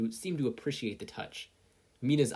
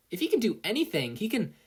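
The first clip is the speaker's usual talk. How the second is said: loud, high cheer building; 11 semitones higher, 5 dB louder than usual. Acted. Sero hyping up the class, building excitement. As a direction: build the cheer toward the punchline. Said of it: "Sero cheered".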